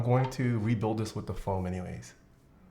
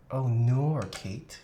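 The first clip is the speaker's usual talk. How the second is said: mock Australian "oh nor"; Australian accent; much slower than usual. Streamer scripting the video host's catchphrase, mock Australian. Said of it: "I didn't hear a single nor".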